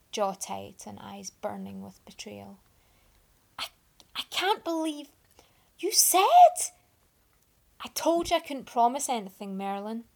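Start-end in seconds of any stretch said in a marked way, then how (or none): 3.6-6.7 rising into a high furious shout; hurt yell building to a shriek; betrayed outburst. Acted. Merlin yells at Arthur in betrayal. 7.8-10.0 defensive plea. Acted. Arthur pleads defensively.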